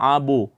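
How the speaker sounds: "abu" with the b rebounding into a rounded oo; thickened bounce. Shown as a demonstration. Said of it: "Jangan ditebalkan, eh, pantulannya".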